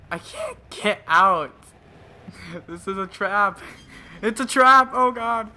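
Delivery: high, loud panicked yelling; panicking gamer. Real, not acted. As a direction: scream in terror at the trap. Trapped by monster, screaming.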